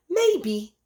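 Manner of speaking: "Maybe" lifted high and drawn out; musing maybe. A narrator's reading. Goose answering Spider's jibe, high musing "Maybe". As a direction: float the first "Maybe" up thoughtfully. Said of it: "mused the goose".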